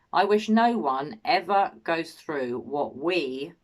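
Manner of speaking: slow quote landing on a drawn-out "we"; measured pace, "we" held at the end; stress on "we". Retold or imitated. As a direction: read it slowly, leaning on the word "we". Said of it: "note the word we".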